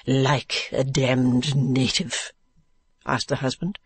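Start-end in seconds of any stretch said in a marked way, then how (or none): 0.1-2.3 slow, drawn-out interjection; Mr. Mantalini. Acted. Husband butting into the interview, slow drawl.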